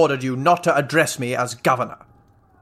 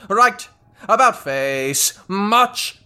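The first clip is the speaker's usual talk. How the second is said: higher barked drill commands; 5 semitones higher, much slower than usual. Acted. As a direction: snap out the parade-ground orders. General barking drill commands.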